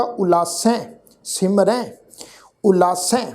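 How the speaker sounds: ਉਲਾਸੈ and ਸਿਮਰੈ with blended, nasalized "ai" endings. Shown as a demonstration. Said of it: "ਮਿਲਵੀ tone ਵਿੱਚ ਉਚਾਰਨ ਹੋਏਗਾ". (ਉਲਾਸੈ, ਸਿਮਰੈ ਦਾ ਅੰਤ ਮਿਲਵੀ ਨਾਸਕੀ tone ਵਿੱਚ)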